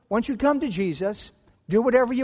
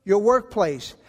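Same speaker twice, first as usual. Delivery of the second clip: raised, firm voice, higher and louder; indignant confrontation; 4 semitones higher, 4 dB louder than usual. Acted. Betrayed spouse confronting the cheating partner, raised and firm. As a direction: stand up to the cheater at last.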